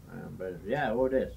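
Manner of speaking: put-on a light, half-hearted Russian accent; lightly voiced Russian accent, words clipped to "who this"; amateur Russian accent playing Brezhnev. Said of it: "My Russian accent, huh?".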